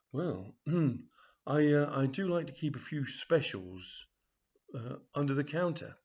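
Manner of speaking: throat cleared, knowing and suggestive; hint at something naughty; sly shop assistant. Acted. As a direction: assistant offering under-the-counter specials, sly. Assistant hints at secret specials.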